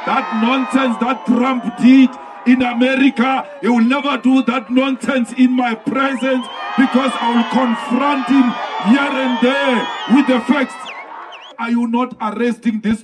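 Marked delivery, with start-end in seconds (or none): 0.1-10.7 shouting. Real, not acted. Rally speech to a crowd.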